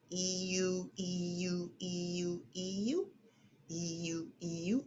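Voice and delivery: exaggerated mouth stretch exercise; lips stretched wide. Shown as a demonstration. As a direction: stretch wide then pout, soft. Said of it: "stretch your mouth wide and then pout".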